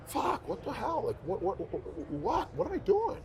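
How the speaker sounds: a replayed, half-mocking angry rant at himself; exasperated outburst. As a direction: pitch leaps high in retold frustration. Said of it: "and I got pissed".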